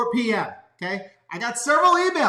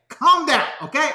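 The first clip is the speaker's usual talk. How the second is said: calm down; 4 semitones higher, 4 dB louder than usual. Real, not acted. Telling chat viewers to relax.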